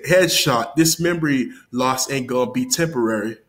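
mildly energetic retold rap bar. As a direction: deliver the bar like you think it's hot. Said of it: "he was saying it with all energy".

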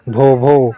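lightly voiced dog's woof; understated mimicked barking; dog bark imitation. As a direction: imitate a dog in an easy speaking voice. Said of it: "dog".

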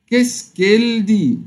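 كيس كيل دي said slowly and high; teacher reading كيس كيل دي slowly to students; slow French pronunciation. Shown as a demonstration. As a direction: model كيس كيل دي word by word. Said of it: "ماذا هو يقول".

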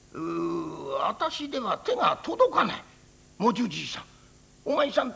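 lightly voiced old priest, searching; a kindly old monk calling gently. Priest voice continues.

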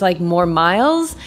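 normal talking voice

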